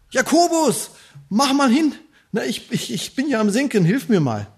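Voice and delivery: mock shout for help. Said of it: "Oder er hätte schreien können".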